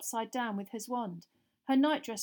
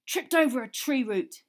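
louder, higher, annoyed; angry; 4 semitones higher, 9 dB louder than usual. A narrator's reading. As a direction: grumble it out crossly. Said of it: "he said angrily".

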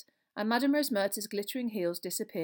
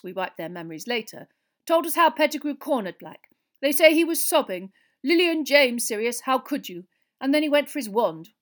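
raised, emphatic minister's account; Fudge, earnest; 6 semitones higher, 12 dB louder than usual. Acted. Minister tells of a hero's death, earnestly. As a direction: tell it as a solemn report.

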